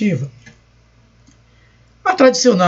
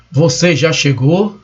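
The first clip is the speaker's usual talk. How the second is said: "Você já chegou?" drawn out slowly with a rising end; slower question; 2 semitones lower than usual. Shown as a demonstration. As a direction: ask it again, slower and more deliberate. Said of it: "o sentido de uma frase muda com a entonação". (pergunta lenta com entonação subindo no final)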